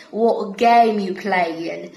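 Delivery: slow, "game" and "playing" with I-like vowels; drawn-out Brummie example line. Shown as a demonstration. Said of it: "we have A".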